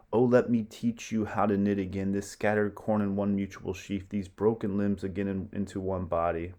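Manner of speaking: rally the people of Rome; roman orator. Acted. Roman lord addresses people.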